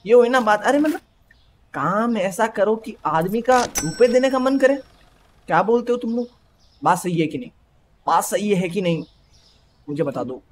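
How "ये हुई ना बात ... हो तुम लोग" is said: excited boast. Pretend. Shopkeeper lecturing customers, pleased.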